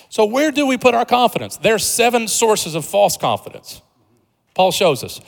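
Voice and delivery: high-pitched, deliberate sermon delivery; impassioned preaching. Real, not acted. Preacher asking where we put our confidence, impassioned preaching. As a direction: announce the key point from the pulpit.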